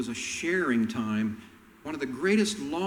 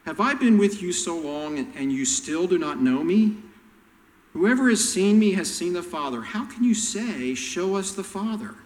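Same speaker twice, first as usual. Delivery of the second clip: louder, higher, fed-up rebuke; exasperated Jesus; 4 semitones higher, 4 dB louder than usual. Retold or imitated. Jesus rebuking his disciples, exasperated and louder. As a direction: let the patience run out. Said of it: "you can start seeing some exasperation in Jesus".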